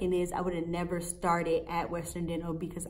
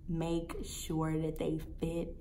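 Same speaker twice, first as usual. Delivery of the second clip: powolne przedrzeźnianie; 3 semitones lower, 7 dB quieter, slower than usual. Retold or imitated. Slow mocking repeat of assistant.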